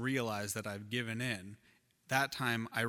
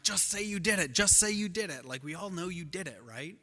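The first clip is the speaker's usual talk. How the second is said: retold yelling; 4 semitones higher than usual. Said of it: "yelling at me".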